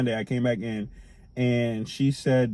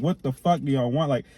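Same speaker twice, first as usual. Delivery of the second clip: irritated outburst; 7 semitones higher than usual. Retold or imitated. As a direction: let the frustration spill over, rising to the end. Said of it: "I'm just irritated at this one".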